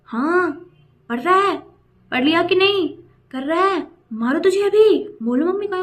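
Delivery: hammed-up nagging of a kid over the phone; mock scolding tutor. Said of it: "And she was like".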